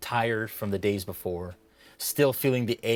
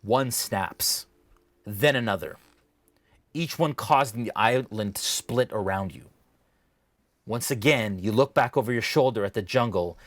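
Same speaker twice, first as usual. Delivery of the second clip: measured, dramatic scene-setting with deliberate pauses; game master narration. Acted. Game master describing a dream to a player, dramatic narration. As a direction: paint the vision phrase by phrase.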